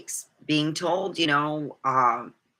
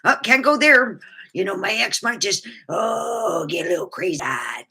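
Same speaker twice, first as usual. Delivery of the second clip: mock alarm; 6 semitones higher, 4 dB louder than usual. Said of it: "I go".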